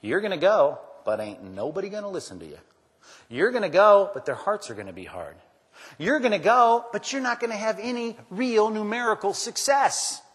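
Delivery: building, loud, high preaching cry; escalating sermon voice of God, challenging Isaiah; God's warning. Retold or imitated. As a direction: hammer each "You're gonna go" harder. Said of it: "What God says to him?".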